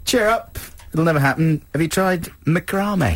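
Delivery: high, chirpy false cheer; mock cheery consoler. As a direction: cheer him up in a silly voice. Mock crew consoling the boy.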